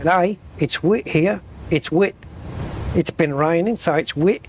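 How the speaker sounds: imitated Australian vowels, "wit" for wet; Australian accent. Imitating an Australian YouTuber on the weather, Australian accent. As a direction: put on a light Australian accent. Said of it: "in Australia, every vowel is pronounced differently".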